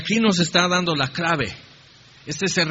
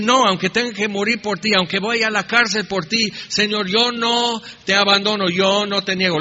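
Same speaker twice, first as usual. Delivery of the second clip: boastful vow; 3 semitones higher than usual. Acted. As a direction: swear it boldly like brash Peter. Peter boasting he won't deny.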